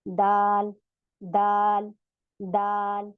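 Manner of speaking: दाल with tongue tip at the gum line of the upper teeth; dal demo. Shown as a demonstration. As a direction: repeat दाल slowly and clearly. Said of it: "सभी try करें". (दाल का सही उच्चारण)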